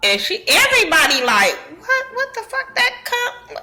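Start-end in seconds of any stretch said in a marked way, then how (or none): 1.8-3.6 much higher, startled what the fuck; stunned squeal. Retold or imitated. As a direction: shriek it in disbelief. Table stunned by the question.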